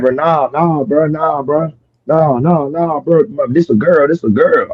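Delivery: imitating a friend nervously talking his way out; Chucky panicking. Retelling Chucky denying in panic.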